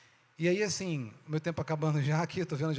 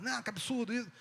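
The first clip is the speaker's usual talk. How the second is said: higher-pitched grumble of protest; mock complaining; 6 semitones higher, 3 dB quieter than usual. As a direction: imitate a knee-jerk objection. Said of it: "Primeiro a gente tem que reclamar".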